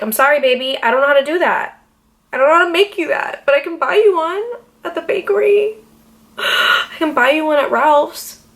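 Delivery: high coaxing voice to her man; sweet-talking. Pretend. Apologizing to her man about the cake, sweet coaxing. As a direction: coax him like a sweetheart.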